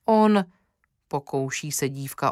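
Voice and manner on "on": one frightened word that cracks, louder and higher; the word breaks as fear catches her; voice breaking. A narrator's reading. Girl trying to explain to her mother, voice breaking. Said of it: "Hlas se jí zlomil".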